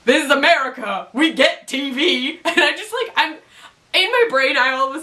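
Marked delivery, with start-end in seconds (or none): 0.1-2.4 lightly put-on, higher cannibal voice; cannibal guy. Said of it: "And the guy's like".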